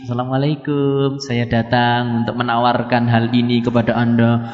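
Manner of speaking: low, even, courteous sales pitch; mild smooth-talking tempter; sweet-faced tempter. Acted. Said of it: "datang dengan wajah yang manis".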